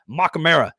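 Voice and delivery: "Makamara" said fast with emphasis; emphatic pronunciation. Real, not acted. Host bluffing through a tricky player name, emphatic. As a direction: punch out "Makamara" as one confident burst. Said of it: "say it fast and put emphasis on it".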